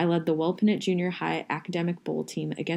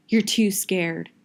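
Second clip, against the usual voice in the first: slow, loud mocking jab; slow taunt; 5 dB louder, slower than usual. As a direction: drag it out to sting. Friend taunts narrator before leaving.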